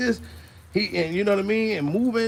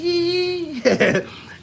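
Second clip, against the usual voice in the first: high giggle; 11 semitones higher than usual. Real, not acted. Laughing after the voice.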